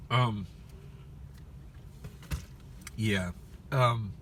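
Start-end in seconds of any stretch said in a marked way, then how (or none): none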